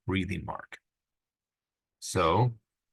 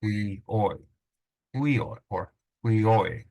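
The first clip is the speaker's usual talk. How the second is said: "we, oi" sounded out with one syllable stressed. Shown as a demonstration. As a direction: demonstrate the stress in "we, oi". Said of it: "just stress that syllable".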